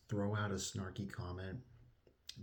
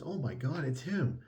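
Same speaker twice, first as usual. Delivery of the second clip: raised, excited announcer call; 6 semitones higher, 3 dB louder than usual. Retold or imitated. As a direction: proclaim it like an announcer. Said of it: "the announcer actually says".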